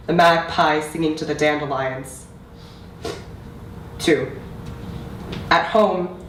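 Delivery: measured recital with deliberate pauses between phrases; spoken-word poem, evenly paced and solemnly delivered; poetry reading. Acted. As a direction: read it as a poem, line by line, letting each image land. Reads own poem aloud.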